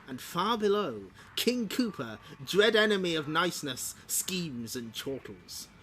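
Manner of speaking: measured narrator with swooping emphasis; theatrical caption reading; storybook narration. A narrator's reading. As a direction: read it like a comic's narrator, drawing out the last words. Reads the comic's narration.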